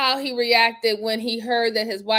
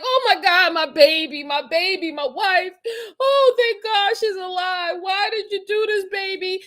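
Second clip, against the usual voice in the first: higher-pitched imitation of a frantic husband; mock distraught concern; 4 semitones higher than usual. Commentator imitating what a worried husband would say, mock distraught. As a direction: lightly act out a worried, wailing spouse. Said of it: "doesn't sound like he's so concerned".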